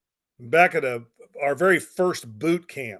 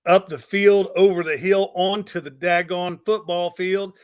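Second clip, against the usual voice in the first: loud, building climax; 3 semitones higher, 7 dB louder than usual. Real, not acted. Telling how the squad came up the field, loud triumph. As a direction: drive each phrase home forcefully.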